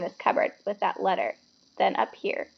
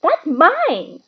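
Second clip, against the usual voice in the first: higher, louder grab for it; snatch it back with your voice; urgent protest; 8 semitones higher, 6 dB louder than usual. A narrator's reading. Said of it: "trying to snatch it back".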